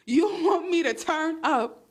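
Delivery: half-laughing complaint at the app, drawn out; exasperated laugh through the words; laughing in disbelief. Real, not acted. Frustrated laughing at TikTok.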